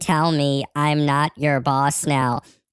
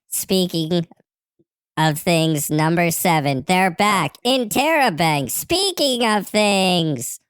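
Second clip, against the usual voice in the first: building exclamation; 2 semitones higher than usual. Acted. Reading a repeated show slogan from a message, building exclamation. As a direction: read with growing emphasis, pitch climbing.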